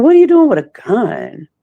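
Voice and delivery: high, alarmed disbelief; startled, voice jumping up high; shocked question. Retold or imitated. Sees friend holding gun.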